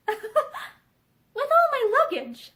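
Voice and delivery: slow, high, laughing question. A narrator's reading. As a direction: laugh through the words, amused. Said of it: "She laughed".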